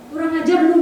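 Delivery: angry curse. Retold or imitated. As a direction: spit the curse out at her. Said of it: "dia bilang". (makian marah yang keras)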